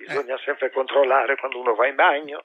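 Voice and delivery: lightly voiced old TV host; a hint of an elderly quiz host; Mike. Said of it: "al nostro Mike". (leggera imitazione di Mike)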